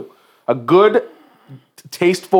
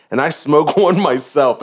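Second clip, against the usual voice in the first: laughing. Real, not acted. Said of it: "this is funny as shit".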